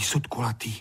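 drilling the words in a hush; whisper. Acted. Honzík memorizing in a whisper. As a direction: whisper it under your breath. Boy repeats words to remember.

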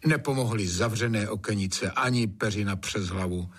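ordinary delivery, nothing marked

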